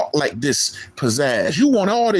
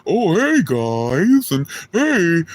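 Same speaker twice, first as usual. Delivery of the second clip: mock a chirpy vlogger greeting; mock friendly greeter; much slower than usual. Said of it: "I guess you thought I was gonna be".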